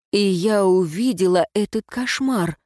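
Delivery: usual speaking voice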